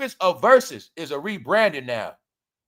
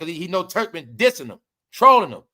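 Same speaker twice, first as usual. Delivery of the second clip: normal talking voice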